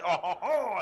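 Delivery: imitated French "oh, ho, ho"; put-on French ho-ho-ho; mock French laugh. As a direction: chuckle out a caricature French laugh. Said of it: "because he said".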